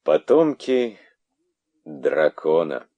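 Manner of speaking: scornful serpent king; bitter anger. Acted. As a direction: hurl the words with bitterness. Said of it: "горечь и гнев".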